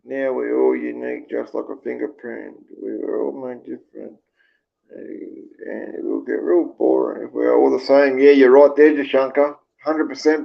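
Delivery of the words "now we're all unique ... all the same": quiet, subdued read-out; reading comments aloud. Real, not acted. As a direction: murmur through the comments on screen. Reads viewers' comments.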